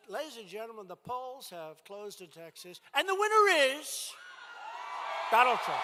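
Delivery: announcer voice, build to the winner's name; hammed-up returns announcement; mock announcer. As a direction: call it like a TV election result. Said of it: "they said".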